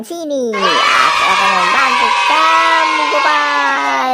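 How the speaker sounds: loud, keen offer of help; eager call. Acted. Boy offering to pump Gopal's balloon, calling out eagerly. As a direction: call out to him, ready to help.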